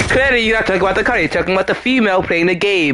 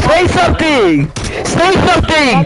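insistent demand; 6 semitones higher than usual. Real, not acted. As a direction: call it out high and insistent. Heckling a teammate in game.

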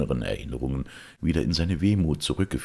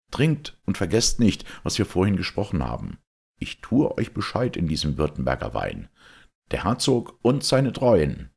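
higher, louder fervent Georg; rousing young knight's toast; 5 semitones higher, 4 dB louder than usual. Acted. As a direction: lift the mood with a stirring toast.

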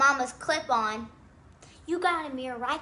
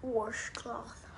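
whispering; 3 semitones lower, 12 dB quieter than usual. Real, not acted. Whispered correction of spelling.

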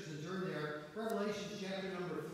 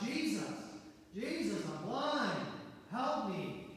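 yelling out; 2 semitones higher, slower than usual. Retold or imitated. Blind Bartimaeus crying out to Jesus, mock yell. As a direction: call out to Jesus, imitating a desperate plea. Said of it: "Bartimaeus kept yelling out".

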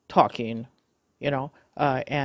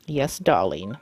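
lower-pitched, playful "yes, darling"; playful reply; 7 semitones lower than usual. Acted. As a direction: humour the machine in a lowered voice. Playful reply to the talking device.

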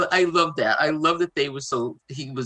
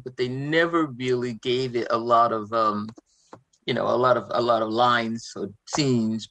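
natural Boston accent, talking casually; easygoing Boston accent in chat; 3 semitones lower than usual. Real, not acted. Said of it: "laughing at your Boston accent".

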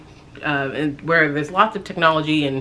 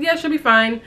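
echoing mom; 9 semitones higher than usual. Retold or imitated. Retells echoing her mother.

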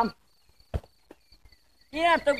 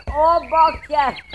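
drawn-out groan; 4 semitones higher, 9 dB louder, much slower than usual. Real, not acted. Another miss, groaning loudly.

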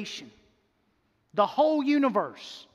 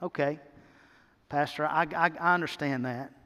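doubting churchgoer; 5 semitones lower than usual. Acted. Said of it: "You say".

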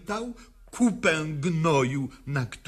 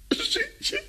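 much higher, soaring rise on piękne; ecstatic cry; much slower than usual. Acted. Woman proclaiming life is beautiful, soaring high. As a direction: cry it out in rapture.

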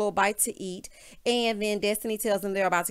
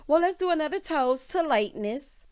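passive-aggressive; 6 semitones higher than usual. Retold or imitated. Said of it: "being passive-aggressive".

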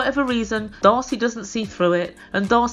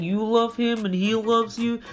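put-on drunken slurring. Florian butting in on the sisters, drunken slurring. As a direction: slur it like a staggering drunk. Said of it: "And whilst Florian's saying".

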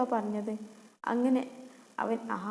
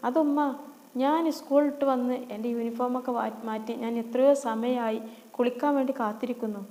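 whiny complaint; 3 dB louder than usual. Acted. Sister complains to mother.

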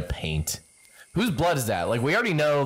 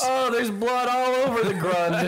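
mock dramatic alarm; 10 semitones higher than usual.

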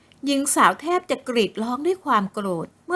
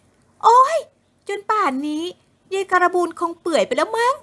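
put-on higher, scornful young woman; displeased; 7 semitones higher, 3 dB louder than usual.

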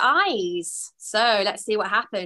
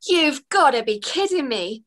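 wailed; 4 semitones higher than usual. Acted. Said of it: "she wailed".

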